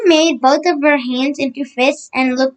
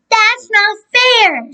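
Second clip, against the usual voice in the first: higher, slow complaining shout; slow, drawn-out protest; 9 semitones higher, much slower than usual. Acted. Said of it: "shouted Neil".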